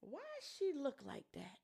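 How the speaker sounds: audible mock stage whisper; imitating failed whisper. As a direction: pretend to whisper so everyone still hears. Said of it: "you not whispering".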